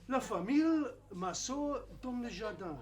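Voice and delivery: mock French tape reading the phrase in a French accent. Language lab tape models the sentence, French accent. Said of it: "in a French accent".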